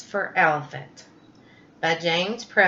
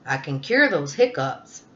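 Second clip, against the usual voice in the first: low lion voice; 4 semitones lower than usual. Acted. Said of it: "Lion said".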